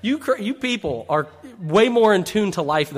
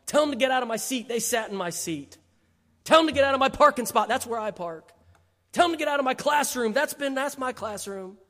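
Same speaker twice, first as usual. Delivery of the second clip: lightly voiced grumpy old man, complaining; mock a cranky old churchgoer griping; a hint of a grumbling old Pharisee, higher; 4 semitones higher than usual. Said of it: "grumpy old Pharisees over there saying".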